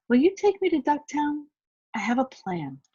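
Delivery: eager little duck with an idea. A narrator's reading. Little duck asks the alligator, eager voice.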